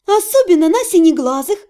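sweet, flirty coo. Acted. Heroine luring the necromancer with a sugary coo. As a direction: purr it at him to lure him in. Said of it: "проворковала я".

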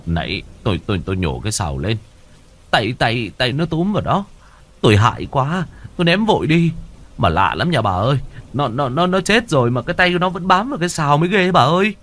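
shaky, stammering and scared; trembling voice. Acted. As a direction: stutter it out, still terrified. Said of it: "Giọng của ông Năm run run".

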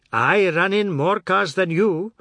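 high, loud, drawn-out indignation; angry boast. A narrator's reading. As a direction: boast angrily, leaning on the words slowly. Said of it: "Jagdat said angrily".

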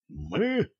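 выше и тише, сипло; вдруг осипший голос; осипнув. A narrator's reading. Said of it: "почему-то осипнув". (Олег осип от страха перед монстром)

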